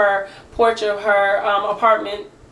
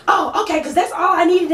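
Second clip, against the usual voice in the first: high, prissy mimicry; mock backing down; 7 semitones higher than usual. Neighbor backing down to mom, high and prissy. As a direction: back off with a sniff.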